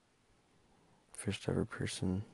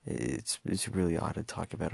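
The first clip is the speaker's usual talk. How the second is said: halting, stumbling speech; stuttering. Real, not acted. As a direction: stumble over the words. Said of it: "sounds like I'm stuttering and stumbling".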